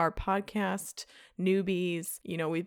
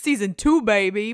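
excited; 11 dB louder than usual. Real, not acted. Excited season opener.

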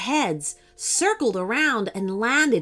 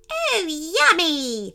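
hydra voice; 8 semitones higher, 3 dB louder, much slower than usual. A narrator's reading. Hydra's delighted greeting.

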